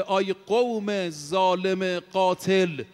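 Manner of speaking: slow, drawn-out solemn call; herald's cry. Retold or imitated. Preacher voicing the heavenly herald in Persian, slow solemn cry. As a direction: stretch out each word like a voice from heaven.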